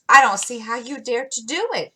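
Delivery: an awed little sister, half scandalised; tone of awe. A narrator's reading. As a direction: gasp it out in wonder. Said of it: "said Beth in a tone of awe".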